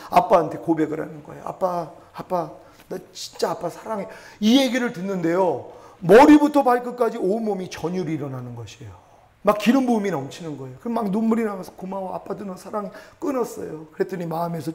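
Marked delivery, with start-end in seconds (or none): 1.4-4.1 slow, soft daughter's love; softly voiced daughter's I love you; tender confession. 11.7-12.9 soft, moved father; much softer loving reply; tender reply. Retold or imitated. Father answers daughter in tears.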